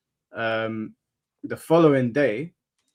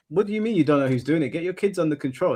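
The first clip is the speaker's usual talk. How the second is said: quick, higher demanding retort; retelling telling the mother off, fast and higher; retold scolding; 5 semitones higher, faster than usual. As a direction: snap at her to sort her kids out. Retelling confronting the neighbour.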